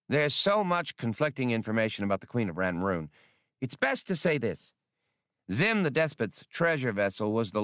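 a polite scholar musing aloud, pitched a bit up; Skinks character voice. Acted. Skinks politely offering his theory to Han, lightly voiced.

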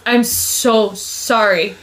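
slow, giggling apology; sheepish apology. Retold or imitated. Roommate owning up to eating the salami, slow and giggly. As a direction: drag it out like a guilty kid.

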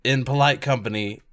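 coy Brooklyn Mario, slow; sly evasive Brooklyn plumber; Brooklyn accent. Acted. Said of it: "my rough Brooklyn accent".

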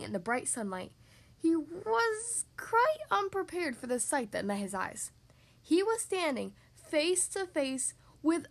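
drawn-out, suspenseful storybook reading; story narration. A narrator's reading. Revealing a huge dragon to young listeners, suspenseful narration. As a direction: build the reveal with deliberate emphasis. Reads a picture book.

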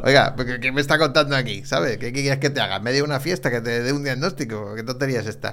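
loud, outraged mock doctor; mock indignant doctor. Urologist scolding a party guest, mock indignant and loud. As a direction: blast it out like a fed-up doctor at a party. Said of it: "como decir".

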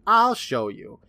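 high, mock-defiant dare; taking the challenge. Retelling Billy accepting the challenge, mock defiance. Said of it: "Billy takes that challenge, saying".

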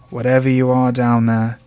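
loud, hard warning shout; gruff shout. Acted. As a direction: bark it down the grave. Gravedigger shouts down the tube.

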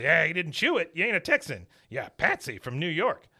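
hammed-up gruff dad; Cotton mocking. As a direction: rub it in. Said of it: "He goes".

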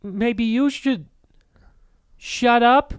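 high, slow then whispered sass; bratty kid mocks it back in a whisper. Orphan kid whispering a rude comeback to the adventurer. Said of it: "mocking the line back".

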